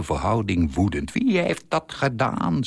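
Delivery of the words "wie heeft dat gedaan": a much higher mock angry cry; father yelling at his son over the scratched box; retold angry shout. A narrator's reading. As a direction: narrate the father's furious outburst, pitched up. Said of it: "schreeuwde ik".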